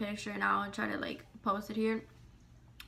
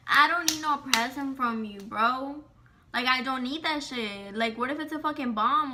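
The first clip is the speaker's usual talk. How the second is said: indignant retort; 3 semitones higher, 4 dB louder than usual. Retold or imitated. Refusing the harasser's present, heated and indignant. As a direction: still heated, a little louder, insisting. Retelling angry reply to harasser.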